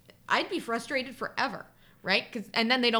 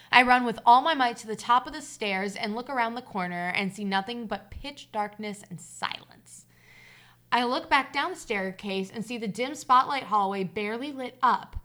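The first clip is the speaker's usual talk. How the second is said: story narration; 4 dB louder than usual. A narrator's reading. Reader telling listeners of a childhood hide-and-seek scare, story narration. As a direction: read the tale aloud, measured and deliberate. Reads a personal story aloud.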